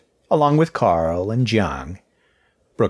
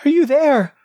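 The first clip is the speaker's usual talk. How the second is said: higher, louder desperate plea; pleading; 7 dB louder than usual. Acted. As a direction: beg for an answer. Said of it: "practically pleading".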